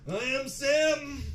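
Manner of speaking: high, drawn-out theatrical cry; hammed-up heroic declaration, stretched out long; big movie line. Winner getting into the Uber after a fight, grandiose movie-line cry. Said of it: "Drop a big movie line".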